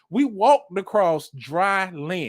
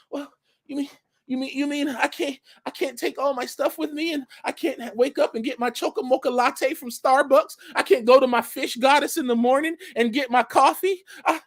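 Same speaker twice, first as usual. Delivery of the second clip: mock disbelief; 5 semitones higher than usual. Mocking spoiled person's disbelief.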